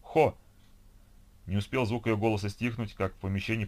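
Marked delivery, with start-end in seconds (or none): 0.0-0.4 high, loud desperate shouts; pained, high-pitched cries; crying out in fear. A narrator's reading. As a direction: yell the syllable twice in panic. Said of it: "прокричала Ольга".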